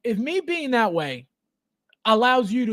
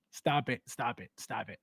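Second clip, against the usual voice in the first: each "Stop it" softer and lower; fading to nothing; 8 semitones lower, 12 dB quieter than usual. Real, not acted. Host to a viewer about the price, fading softer. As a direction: trail off in disbelief.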